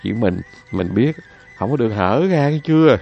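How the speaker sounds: secretive husband. Acted. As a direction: swear her to secrecy. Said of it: "rồi mới nói".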